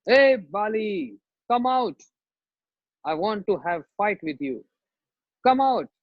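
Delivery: mock challenge yell at the door; shouting. Sugriv shouting at Bali's doorstep to come out and fight. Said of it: "he starts shouting".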